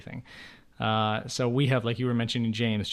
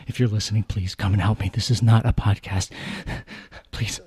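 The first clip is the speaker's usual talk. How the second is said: mock plea for help; 3 semitones lower, 3 dB louder than usual. Pretends to be held captive.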